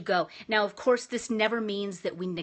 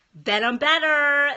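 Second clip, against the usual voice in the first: loud relief; 5 semitones higher, 9 dB louder, slower than usual. Real, not acted. After crying in the bathroom.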